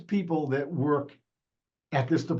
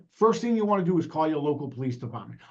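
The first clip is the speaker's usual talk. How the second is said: quick, rushed delivery; fast pace; faster than usual. Shown as a demonstration. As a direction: rattle it off at speed. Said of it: "I will talk a little, uh, a little slower".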